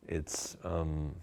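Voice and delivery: halting, with very long awkward pauses and ums; struggling for words. Shown as a demonstration. Coach showing how to forget a word, stumbling and stalling. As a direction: stall for ages hunting a simple word. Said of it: "struggle on it and sort of think through for ages".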